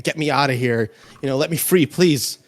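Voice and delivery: high, loud desperate begging; trapped man pleading for release; pleading prisoner. Acted. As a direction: beg to be let free, panicking. GM voices trapped screaming man.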